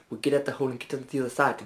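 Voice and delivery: put-on quick kangaroo voice with a lost Australian accent; hurried, botched Australian accent; failed Australian accent. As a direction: attempt Australian and let it slip. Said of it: "completely abandoned the Australian accent".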